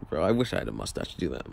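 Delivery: ordinary talk, nothing marked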